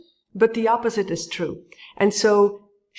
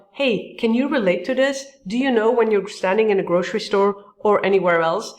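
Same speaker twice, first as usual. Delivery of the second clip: eager. Shown as a demonstration. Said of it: "Add that little thing of".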